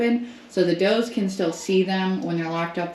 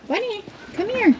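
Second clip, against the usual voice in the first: much higher, sung-out call with a falling end; high singsong coaxing call. Real, not acted. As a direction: coax the goat with a lilting high call. Calling the goat again.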